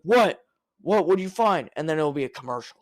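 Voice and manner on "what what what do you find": mock eager. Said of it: "Rick will be like".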